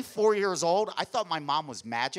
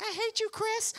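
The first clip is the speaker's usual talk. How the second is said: much higher whiny little brother; whiny kid; 4 dB quieter than usual. Retold or imitated. Skinny little brother complains to big brother, high whiny squeal.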